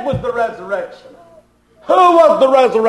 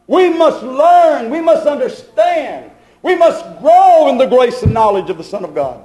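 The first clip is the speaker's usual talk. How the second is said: forceful preaching; 2 semitones higher than usual. Real, not acted. Preacher teaching the congregation of God's visitation, forceful preaching. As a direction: preach it with urgency, landing hard on key words.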